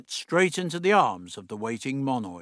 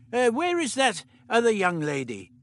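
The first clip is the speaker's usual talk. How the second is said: put-on higher, brisk old doctor; 9 semitones higher than usual. The Doctor instructing Meliam, brisk fussy voice.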